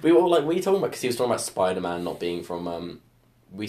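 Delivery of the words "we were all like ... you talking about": high, incredulous questioning; retold group astonishment; acted-out disbelief. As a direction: call him out, baffled, pitch raised. Retold disbelief at wrong claim.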